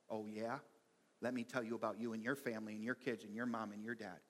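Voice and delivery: low, quiet, taunting retort; mock comeback. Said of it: "gearing up for our comeback".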